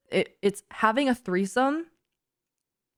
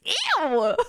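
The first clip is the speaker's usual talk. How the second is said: much higher ew broken by a laugh; 8 semitones higher than usual. Real, not acted. Reacting to the muffin story, laughing. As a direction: squeal it through laughter.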